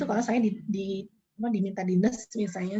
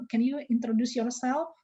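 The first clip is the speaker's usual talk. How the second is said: slow English; slower than usual. Shown as a demonstration. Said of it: "menggunakan bahasa Inggris".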